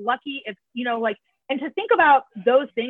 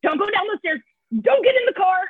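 inner screaming; 4 semitones higher, 3 dB louder than usual. Retold or imitated. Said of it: "my whole body was screaming".

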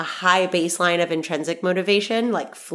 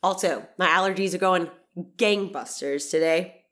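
blocked nose. Real, not acted. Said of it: "my nostrils are clogged up, because they are".

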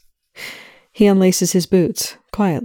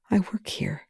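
choked out; 4 semitones higher, 8 dB quieter than usual. A narrator's reading. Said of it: "she chokes out".

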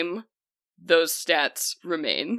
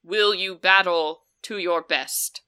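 formal, louder oath question; commanding water spirit; 4 dB louder than usual. Acted. Water spirit swears in her fighter, formal and commanding. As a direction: swear in a champion. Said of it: "she begins to speak in a voice".

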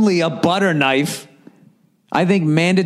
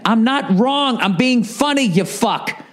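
indignant retort; 8 semitones higher, slower than usual. Real, not acted. Retorting to emailer mid-reading.

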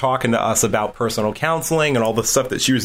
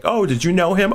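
quoting someone; 9 semitones higher than usual. Retold or imitated. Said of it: "and I'm like".

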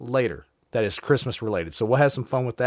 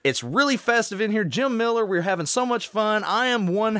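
christmas elf; 7 semitones higher than usual. Acted. Festive high voice, slowed.

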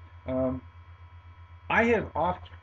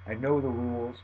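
ordinary talk

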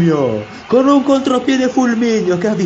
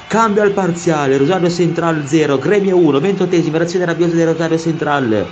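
breathless italian goal commentary; 4 semitones higher than usual. Acted.

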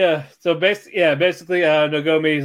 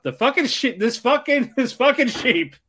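amused outburst; 8 semitones higher than usual. Real, not acted. Laughing retelling of drowning sheep.

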